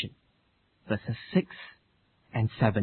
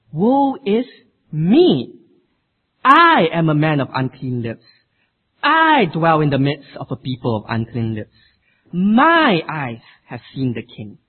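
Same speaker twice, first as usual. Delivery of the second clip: confessing cry; 4 dB louder than usual. Acted. Isaiah's confession, voiced.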